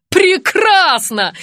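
high, loud and slowly drawn out; delighted. A narrator's reading. Director delighted that the apron was found, drawn-out joy. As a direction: savour the word with joy. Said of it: "обрадовалась режиссёр".

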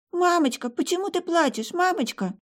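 put-on high child's voice, worried; a little girl asking her crying mother why; small girl's voice.

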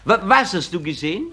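the teacher is aghast; teacher shocked at the second boy. Acted.

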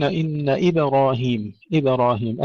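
"إبراهيم" with vowelless ba lightly echoed; still bouncing ba. Shown as a demonstration. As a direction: bounce the ba of "إبراهيم" without adding i or u. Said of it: "ننتبه أن نبقي الباء ساكنة".

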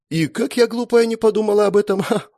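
mocking smirk. A narrator's reading. Sister mocking brother's dream of borrowed power, smirking. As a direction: pretend to be dumb, sneering. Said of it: "усмехнулась в ответ Света".

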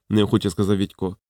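usual speaking voice

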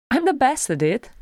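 high, bright-pitched boast; proud. A narrator's reading. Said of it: "said Gimli proudly".

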